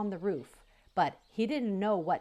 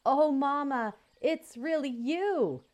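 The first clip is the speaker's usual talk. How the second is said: high, loud cry of joy, slowing at the end; overjoyed little goose; joyful recognition; 7 semitones higher, 4 dB louder than usual. Acted. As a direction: burst out with delight at finding her. Goose recognizes his mother.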